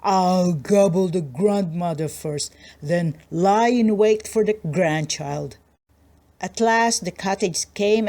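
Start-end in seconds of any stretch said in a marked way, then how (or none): 0.0-5.6 lightly voiced scheming wolf. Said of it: "thinking to himself".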